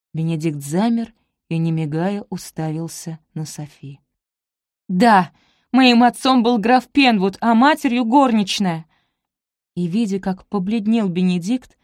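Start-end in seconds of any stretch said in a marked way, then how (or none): 4.9-8.9 loud, higher, defiant confession; defiant outburst. A narrator's reading. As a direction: throw the truth at him.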